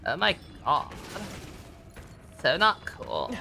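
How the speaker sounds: slow, laid-back hippie drawl; stoned surfer-dude voice. Pretend. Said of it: "I prefer my hippie voice".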